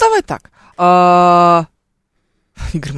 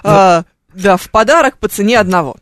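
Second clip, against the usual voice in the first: louder hyped TV shop offer; infomercial host; 7 dB louder than usual. Retold or imitated. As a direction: push the bonus deal like a presenter. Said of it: "магазин на диване".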